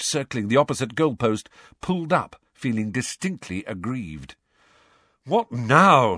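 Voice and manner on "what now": impatient. Acted. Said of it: "he said impatiently".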